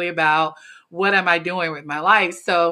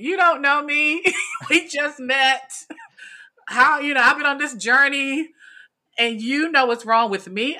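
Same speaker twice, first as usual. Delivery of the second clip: incredulous inner voice; 6 semitones higher than usual. Retold or imitated. To the stranger who claims to know her, incredulous. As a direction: think it, half amused and offended.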